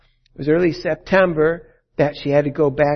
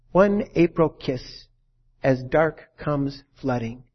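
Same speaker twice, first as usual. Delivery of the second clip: poem recital; slower than usual. Retold or imitated. Recalling a line of his poem.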